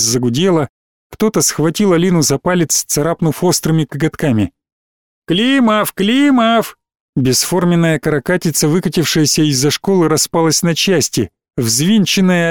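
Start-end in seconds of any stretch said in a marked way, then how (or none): 5.3-6.8 high, falling two-syllable calls; excited calling. A narrator's reading. Child grabbing Alina's finger, excitedly calling out. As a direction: cry the name out, pitched up.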